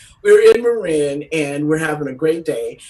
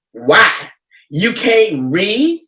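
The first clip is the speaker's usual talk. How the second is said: indignant challenge; 3 semitones higher, 5 dB louder, much slower than usual. Retold or imitated. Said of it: "this is what had happened".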